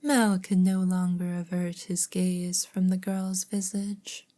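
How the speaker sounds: measured storybook narrator; story narration. A narrator's reading. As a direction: read the tale aloud with care. Reads story aloud.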